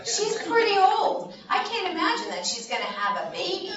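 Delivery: a hint of a disbelieving husband; incredulous old husband. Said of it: "Zechariah is like".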